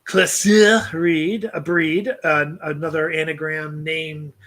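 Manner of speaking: reads the poem aloud in a light put-on accent; lightly accented poetry recital to a podcast co-host; poem reading accent. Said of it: "I seem to read better when I do this accent".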